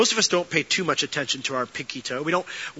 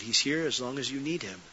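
hushed, gentle inner voice; small still voice; 7 dB quieter than usual. Retold or imitated. God's quiet answer to the frustrated pastor, hushed and gentle. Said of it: "small voice".

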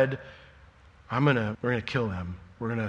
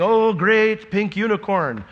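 slow, high, hammed-up proclamation; mock street preacher; 7 semitones higher, 6 dB louder, slower than usual. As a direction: proclaim it like a sidewalk zealot. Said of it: "see somebody saying".

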